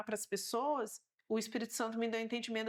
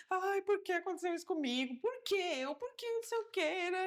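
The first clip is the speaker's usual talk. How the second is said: high, pleading, near tears; mock-tearful why me; tearful complaint; 7 semitones higher than usual. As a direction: retell a crying lament, voice lifted high. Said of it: "eu tava chorando".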